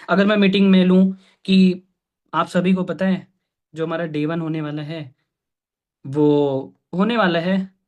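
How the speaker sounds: halting, with dragged pauses and little energy; unexciting delivery. Shown as a demonstration. Mentor showing team a dull meeting opener, unexciting. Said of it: "अगर ऐसी बात करूं, क्या लगता है meeting में मजा आएगा".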